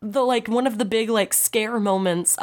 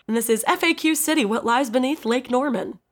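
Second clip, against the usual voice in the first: slightly raised radio-host read; 3 semitones higher than usual. Pretend. Host introduces the NPR news source, radio voice. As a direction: announce it like a public radio host. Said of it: "I did my radio voice".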